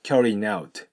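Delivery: "carrying out" as carryinout; linked without G. Shown as a demonstration. Teacher shows learners liaison, "carrying out" without G. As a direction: glue N to out in "carrying out", no G. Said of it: "Gが発音されずに".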